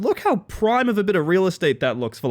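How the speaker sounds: ordinary delivery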